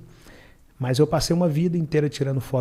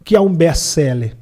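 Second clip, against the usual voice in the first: fast, high, loud eager question; eager rush; 10 semitones higher, 8 dB louder than usual. Retold or imitated. Phoning Anderson to ask about best-sellers, fast and eager. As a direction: rush the question out, dying to know.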